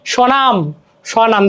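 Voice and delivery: স্বনাম said "sho-naam", no b; silent b. Shown as a demonstration. Teacher showing an unsounded b-fola, careful স্বনাম. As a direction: leave the b out of স্বনাম. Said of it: "ব ফলার কোনো উচ্চারণ হয় না".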